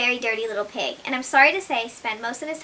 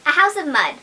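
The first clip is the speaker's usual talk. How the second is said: lightly voiced piglet, higher and louder; eager little pig wanting mud; 4 semitones higher, 7 dB louder than usual. Little pig eager to his mother, higher.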